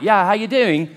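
lightly imitated British accent. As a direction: slip casually into a mild British accent. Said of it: "if a British person comes talking to me".

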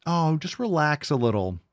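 high, falling mock coaxing; mock passive-aggressive. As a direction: imitate someone condescendingly telling you to loosen up. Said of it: "It's passive aggressive".

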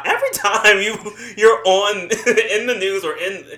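heated, loud rant; yelling. Real, not acted. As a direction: raise your voice, all fired up. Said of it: "You're yelling at one point".

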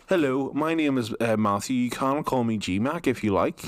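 lightly tidied-up Northern Irish introduction; clearer Northern Irish accent. Shown as a demonstration. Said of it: "start talking a wee bit more like this".

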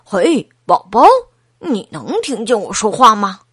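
lightly voiced boy, pitched near the narrator's; hint of a boy calling to the baby; lightly played brother's question; Craig. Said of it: "克雷格把头贴在妈妈的肚子上问".

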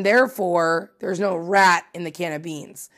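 ordinary talk, nothing marked

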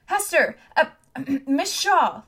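high, loud call that stumbles into politeness; calling after her. A narrator's reading. Boy catching up with girl walking off, calling out. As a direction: call out, then correct yourself awkwardly.

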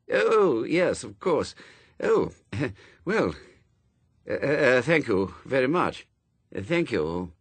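nervous, halting courtesy; flustered angel. Acted. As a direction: gush awkward thanks with little hesitations. Flustered angel thanks the Metatron.

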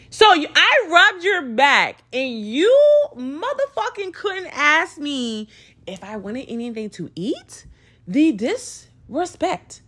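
indignant, slowing to drawn-out words; outraged rant. Retold or imitated. Calling out the man who never offered her food, indignant. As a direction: build outrage, then stretch each accusation.

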